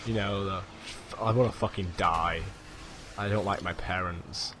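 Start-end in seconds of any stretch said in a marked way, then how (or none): 1.2-4.5 put-on low, sulky emo teen parody; mock emo. Gamer pretending to be in an emo phase, sulky low voice. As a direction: play a gloomy emo, pitched down. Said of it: "I'm going for the emo phase now".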